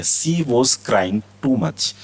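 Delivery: each word stretched out; very slow model reading. Shown as a demonstration. Teacher reads the example very slowly to students. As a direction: drag it out for learners to copy. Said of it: "teacher models example sentence".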